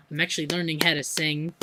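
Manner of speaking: slipping into a put-on English accent; American faking an English accent; fake English accent. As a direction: sound English, not quite convincingly. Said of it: "Don't know why I started an English accent".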